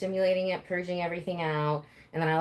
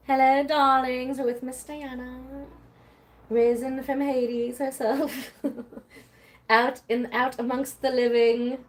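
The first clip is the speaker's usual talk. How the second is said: slow, higher theatrical host voice; hammed-up welcome to the audience; mock grand host announcing a guest; mock grand greeting; 5 semitones higher, slower than usual.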